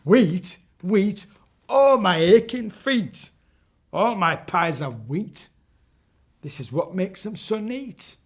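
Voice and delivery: high, loud chanting witch voice; sing-song rhyme like a batty hag; witch rhyming. Acted. Witch praising her wheat pies, high sing-song. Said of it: "She says".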